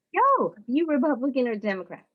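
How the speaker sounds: a casual, pushy stranger; lightly voiced nosy stranger; rude stranger. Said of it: "What's not acceptable is if they say".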